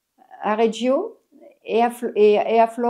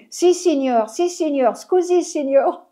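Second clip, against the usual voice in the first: playing the Italian tourist, a bit higher; mock Italian apology; 4 semitones higher than usual. To the policeman, posing as an Italian tourist, mock apologetic. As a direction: pretend Italian, apologising to the cop. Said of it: "J'ai pas parlé français".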